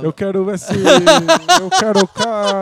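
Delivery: loud, slow, laughing cheerleader chant. Pretend. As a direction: cheer each letter out big and slow. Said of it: "Você parece agora uma, uma cheerleader".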